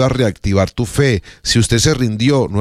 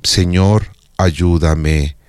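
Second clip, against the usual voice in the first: low, slow plea; a heartfelt cry to God; deep prayer; 3 semitones lower, much slower than usual. Shown as a demonstration. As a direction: pray it as the deepest prayer. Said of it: "tres palabras".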